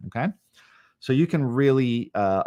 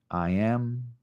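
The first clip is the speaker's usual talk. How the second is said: stepping down in tone on each repeat; varying tone; 3 dB quieter, much slower than usual. Shown as a demonstration. Teacher shows changing tone on repeats, gently descending. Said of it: "Allow yourself to go up or down in tone".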